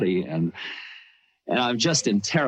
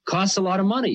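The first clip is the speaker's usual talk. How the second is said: imitating the guru; 10 semitones higher, 3 dB louder than usual. Guru teasing about the car.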